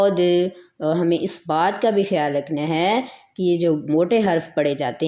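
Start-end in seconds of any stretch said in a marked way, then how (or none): 0.1-0.2 غاد held long on a straight alif, no w sound; drawn-out heavy ghaad. Shown as a demonstration. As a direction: stretch غاد out, heavy, from the side of the tongue. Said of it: "ادا ہوگا".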